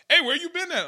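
high, loud shout of greeting; imitating him yelling from his car window; excited call-out. Barber calling out to his former client, high and loud. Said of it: "The nigga like".

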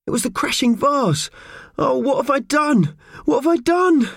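high, rising panic; wailing in guilty dismay; a mouse frets about the vase; panicky. Acted. Mickey panics over broken vase.

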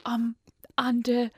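hushed unvoiced phone whisper. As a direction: whisper down the phone under duress. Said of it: "Ma'am, why are you whispering?".

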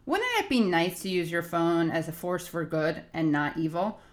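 upbeat sponsor read, steady and clear. Acted. Host reading a sponsor ad to listeners, upbeat ad read. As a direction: sell the phone plan like a radio spot.

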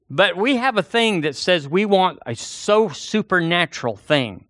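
normal talking voice

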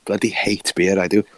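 put-on South Walian grumble; jokey South Wales accent impression. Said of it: "such a South Wales accent on him".

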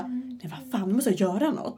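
imitating a hushed, scared thought; retold hushed thought. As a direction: think it to yourself under your breath. Retold frightened thoughts while hiding.

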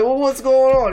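imitated high, loud bewildered yell; mock confusion. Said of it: "He's like".

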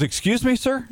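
high, puzzled questioning voice; baffled telemarketer. Retold or imitated. Retold baffled telemarketer on the phone.

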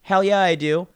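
high, loud gung-ho answer; enthusiastic yell. Retold or imitated. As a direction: shout it like an eager fan. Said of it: "Do you do this?".

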